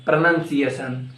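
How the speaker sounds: "pronunciation" as pruh-NUN-see-ay-shun; corrected PRONUNCIATION. Shown as a demonstration. Teacher correcting learners, "pronunciation" with NUN inside. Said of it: "It's not pronunciation".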